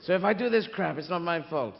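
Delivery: a hint of a plummy James Mason God; James Mason impression. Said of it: "do the James Mason".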